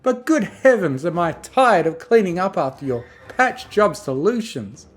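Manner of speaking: high, loud, indignant lady; demanding Rarity. Acted. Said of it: "demanded Rarity".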